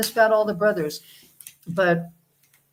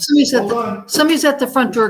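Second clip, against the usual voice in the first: loud alert; 4 semitones higher, 6 dB louder, faster than usual. Real, not acted. Host alerting guests to doorbell.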